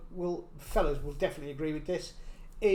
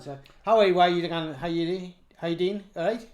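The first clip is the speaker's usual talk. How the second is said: Northumbrian accent; 2 semitones lower than usual. Shown as a demonstration. Asked for Northumbrian, greets a local, Northumbrian accent. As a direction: greet in a thick Northumbrian dialect. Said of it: "if I'm speaking to a Northumbrian".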